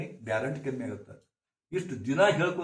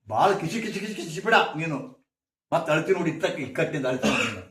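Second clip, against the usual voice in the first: mock scolding parent; 5 dB louder than usual. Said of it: "ನೀವು ಅಂತೀರಿಲ್ಲ".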